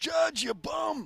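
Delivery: very high, shrill, loud yell in Bronx accent. Joking about people from the Bronx, imitating a yelling Bronx accent. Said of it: "They're just always yelling".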